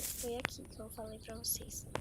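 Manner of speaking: soft whisper to the viewers. Real, not acted. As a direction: lean in and whisper the tip. Sneaking, talking to viewers.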